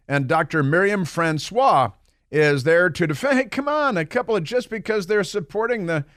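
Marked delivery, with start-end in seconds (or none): 3.4-6.0 mock protest. Mocking the journalist's defence.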